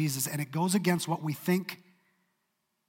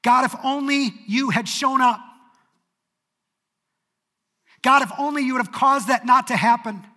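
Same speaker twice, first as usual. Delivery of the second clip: loud, much higher, pleading cry to God; anguished plea; 8 semitones higher, 9 dB louder than usual. Acted. A grieving believer crying out to God, anguished and loud. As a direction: beg God like your heart is breaking. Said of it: "Martha says the exact same thing".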